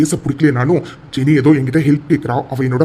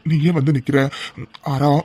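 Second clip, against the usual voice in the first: put-on wounded innocence, rising higher; fake pitiful victim; 3 semitones higher than usual. Aravind to Aara, faking hurt innocence. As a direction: play the hurt victim to win her sympathy. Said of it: "வழக்கம் போல உன் ஆக்டிங்க போடு".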